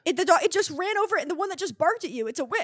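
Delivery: lightly voiced little girl. Little girl warning a man about a dog, lightly voiced child. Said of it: "I'll be the little girl now".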